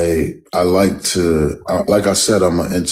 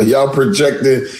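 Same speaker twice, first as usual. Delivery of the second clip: defensive; 7 semitones higher, 3 dB louder than usual. Real, not acted. Accused of faking, pushes back.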